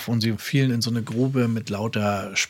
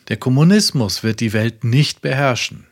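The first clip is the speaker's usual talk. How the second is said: preaching. Acted. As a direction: proclaim it to the whole world from the pulpit. Reads Branham sermon quote. (eindringlich predigend)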